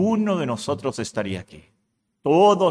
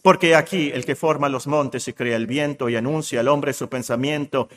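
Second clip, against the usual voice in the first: scripture reading. Acted. Reads scripture aloud as God speaking.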